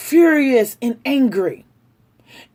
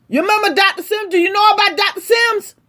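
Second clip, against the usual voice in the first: angry demand; 6 semitones higher, much faster than usual. Real, not acted. Angry rant demanding an answer.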